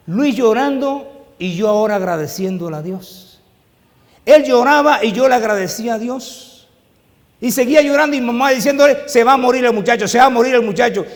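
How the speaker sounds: más alto y fuerte, en tono de púlpito; predicación intensa. Acted. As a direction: empuja la narración con fuerza. Relato predicado a voz alzada. (relato predicado con fuerza)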